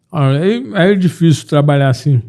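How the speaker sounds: talking through a mouthful of food; words round a big bite of burger; mouth full. Real, not acted. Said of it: "Aí que faz mal falar de boca cheia".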